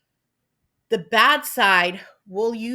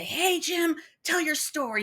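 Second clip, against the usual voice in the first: higher coaxing mock voice; 7 semitones higher than usual. The universe coaxing Jim.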